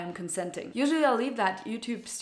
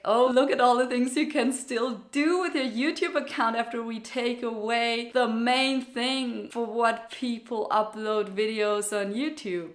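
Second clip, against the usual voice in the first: mock condescending voice. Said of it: "this sounds like that".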